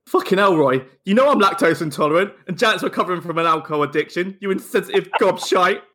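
lightly exasperated comic rant; mock outrage. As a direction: act mildly offended, laughing at the last insult. Acted outraged reply to Roy.

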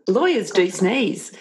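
laughing. Real, not acted. Host laughs at the sneeze.

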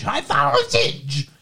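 slow dramatic trailer announcer; movie trailer voice. Acted. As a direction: drag the title out like a trailer. Title repeated dramatically.

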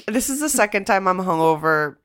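normal talking voice

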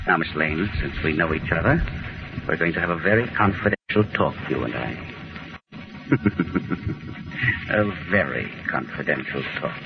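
soft sinister threat; menacing. Acted. Villain menaces captive Lois.

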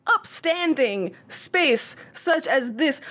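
lightly voiced showman, projecting slowly. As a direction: project it to the whole hall like a show. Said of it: "putting on a show and, like, projecting his voice".

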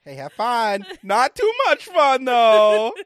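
loud, high Midwest dude voice; Midwest accent. Retold or imitated. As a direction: ham up a Midwest boyfriend accent. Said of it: "I put my Midwest accent on".

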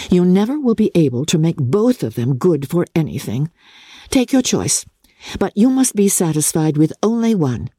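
a lightly voiced lively young woman; hint of a spirited sister; Elizabeth's voice. Elizabeth teases Jane.

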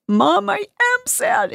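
very high, slow mock child wail; distraught son. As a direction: imitate a boy protesting to mom in distress. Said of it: "He's really distraught".

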